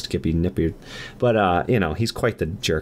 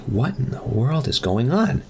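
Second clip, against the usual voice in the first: slow, higher-pitched mock disbelief; bewildered; 5 semitones higher, slower than usual. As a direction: draw it out, baffled by the scene. Son finds blood and mom's clothes.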